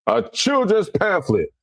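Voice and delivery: high, slow, drawn-out scoff; mocking scorn. Real, not acted. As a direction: stretch it out in disbelief. Mocking the book as childish.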